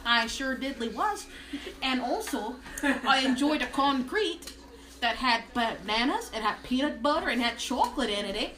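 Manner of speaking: lightly voiced Minnesotan single gal; hint of a Minnesota character voice. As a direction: tell it as a chatty Minnesota gal. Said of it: "a single gal from Minnesota".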